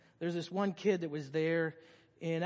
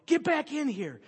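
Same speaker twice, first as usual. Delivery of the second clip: high, loud call after a runaway; mock yell; 9 semitones higher, 7 dB louder than usual. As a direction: imitate a woman yelling a kid back inside. Miss Helen calling kid back.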